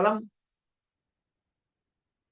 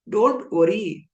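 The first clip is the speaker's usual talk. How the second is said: reassuring teacher; 3 semitones lower, slower than usual. Shown as a demonstration. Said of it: "This is how compassion comes of the teacher".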